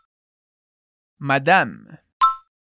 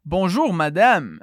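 "Bonjour, madame" said slowly, each syllable clear; slow teacher demo; slow model phrase; 3 semitones lower, slower than usual. Shown as a demonstration. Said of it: "alors répète".

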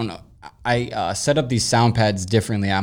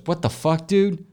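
much higher voice for the stunned friend Brandon; shocked friend; 7 semitones higher than usual. Retold or imitated. Friend Brandon seeing him heavy, shocked and high-pitched. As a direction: play the friend recoiling in disbelief. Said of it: "And he goes".

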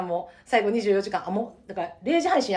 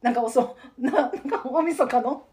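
out of breath from laughing; catching breath after a laughing fit; after laughing hard; 2 semitones higher, 3 dB louder than usual. Real, not acted. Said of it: "笑いすぎて涙出てきたわ". (笑いすぎて息切れ)

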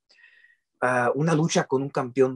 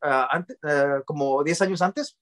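mock future booker; 4 semitones higher than usual. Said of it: "No me vayan a decir".

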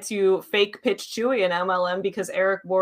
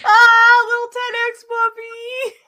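talking to a dog; 12 semitones higher, 6 dB louder, slower than usual. Real, not acted. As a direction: coo at the puppy. Cooing at the dog.

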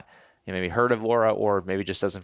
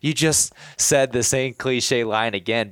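mock outsider voice; 4 semitones higher, 3 dB louder, slower than usual. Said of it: "I can only imagine on the outside".

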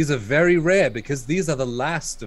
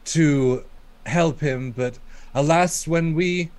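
fancy formal talk. Acted. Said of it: "stop your fancy talk".

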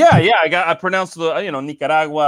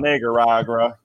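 mild Southern drawl; 2 semitones lower than usual. Retold or imitated. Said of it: "long A drawl".

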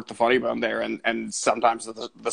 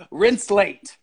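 cold greedy landlord; 6 semitones higher, 5 dB louder than usual. Pretend.

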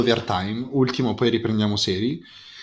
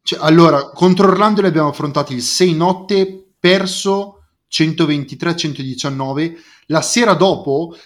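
loud, higher fan rant; emphatic italian speech; 4 semitones higher, 5 dB louder than usual. Real, not acted. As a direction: hype it like a fan. Fan rant about Bulls.

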